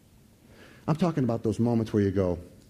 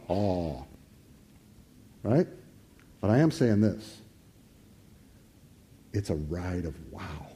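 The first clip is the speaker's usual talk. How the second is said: normal talking voice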